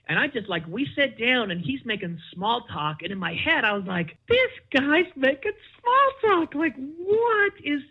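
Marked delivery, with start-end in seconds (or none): 4.3-7.8 high, incredulous inner voice; inner disbelief. Retold or imitated. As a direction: think it in stunned disbelief. Inner disbelief at small talk.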